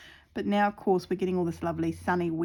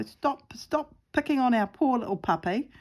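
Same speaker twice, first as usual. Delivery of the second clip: stern talking-to; 5 semitones higher than usual. Retold or imitated. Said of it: "a very stern talking to".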